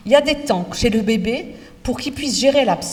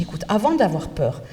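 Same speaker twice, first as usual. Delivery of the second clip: calm reassuring teacher; 4 semitones lower than usual. Shown as a demonstration. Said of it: "Je dis".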